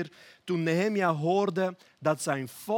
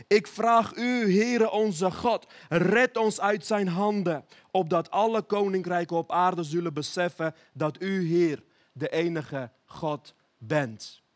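pleading prayer. Acted. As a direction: cry out to God, slowing on each phrase. Preacher voices Hiskia's prayer.

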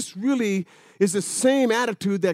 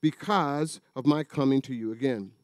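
measured, formal reading of the letter; scripture reading. Acted. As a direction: read the passage like a pulpit lesson. Reads scripture passage aloud.

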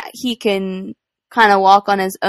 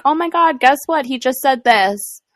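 excited; 5 semitones higher than usual. Retold or imitated. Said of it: "texting your husband or your family".

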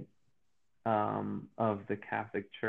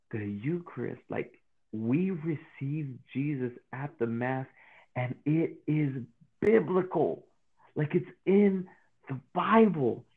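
building excitement; 3 semitones higher, slower than usual. Retold or imitated. Retelling his late-night Bible revelation, rising from calm to excited. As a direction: let the discovery grow until it bursts out. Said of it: "And I was like".

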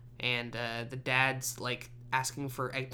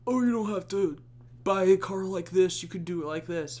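higher, louder mock salesman voice; app pitch voice; 5 semitones higher, 5 dB louder than usual. The car app pitching itself to a stressed shopper, mock upbeat. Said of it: "he's like".

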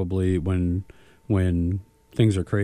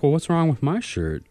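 raised, louder comic grievance; mock indignant; 7 semitones higher, 4 dB louder than usual. Jealous friend overlooked on the shirt compliment, mock indignant. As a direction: play up being slighted, pitched higher. Acts out his jealous reaction.

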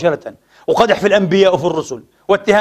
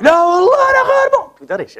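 much higher, outraged exclaim; mock indignant shock; 13 semitones higher than usual. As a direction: act scandalised at the rudeness. Imagined indignant reaction to shouting.

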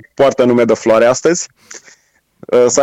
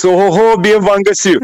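Romanian words in a put-on French accent; mock French accent; 6 semitones higher than usual. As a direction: imitate a pompous French greeting. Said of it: "o franceză pură". (imitație de accent franțuzesc)

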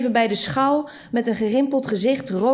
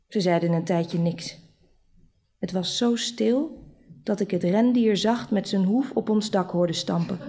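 ordinary delivery, nothing marked

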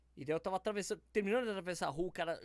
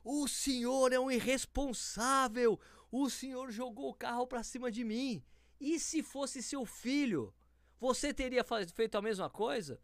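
high, slow, emphatic scolding; a public dressing-down, very slow and high; telling off loudly; 8 semitones higher, slower than usual. Retold or imitated. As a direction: scold him slowly and loud. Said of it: "Eu comecei a falar muito alto".

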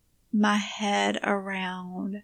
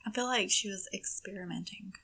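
whispered; 8 dB quieter, faster than usual. Real, not acted. Grim true crime remark.

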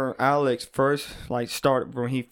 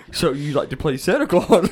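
laughing tease; 3 dB louder than usual. Real, not acted.

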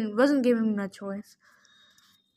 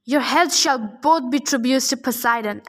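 bellowed; 3 dB louder than usual. Acted. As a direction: boom it over the arena. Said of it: "Antaeus bellowed".

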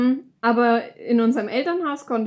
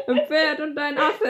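laughing; 4 semitones higher than usual. Real, not acted. Laughing through the words.

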